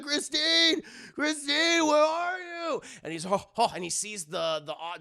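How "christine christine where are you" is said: higher, louder frantic calling; mock worried boyfriend shouting her name. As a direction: call through the house for her. Man calls out for girlfriend.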